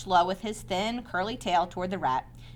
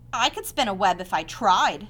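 boasting; 5 dB louder than usual. Acted.

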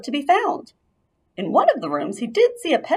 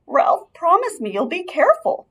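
higher anxious plea; pleading; 9 semitones higher than usual. A narrator's reading. Mother pleading with Ralph to be careful. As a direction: beg him to take care. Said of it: "pleaded his mother".

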